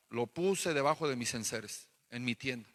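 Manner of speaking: low, soft, hushed voice of a guilty man; Achan's confession. Retold or imitated. Achan, caught by Joshua, confessing in a low, soft voice. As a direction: own up quietly, head down.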